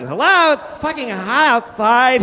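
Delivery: high, drawn-out sing-song greeting; flamboyant gay guy. Retold or imitated. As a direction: camp it up on the street corner. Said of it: "he's standing on the corner going".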